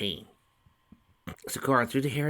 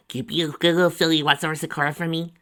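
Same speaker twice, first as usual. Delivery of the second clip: coaxing mother; 8 semitones higher, 8 dB louder, faster than usual. A narrator's reading.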